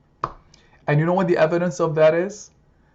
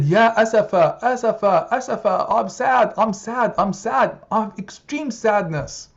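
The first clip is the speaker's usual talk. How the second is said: grieving lament; 6 semitones higher than usual. Acted. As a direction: wail it as a grieving father. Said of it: "He said".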